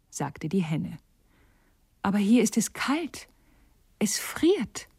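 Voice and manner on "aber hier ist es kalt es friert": high, breathy whisper, freezing; shivering whisper. Acted. Swallow complains of cold. (zitterndes Flüstern vor Kälte)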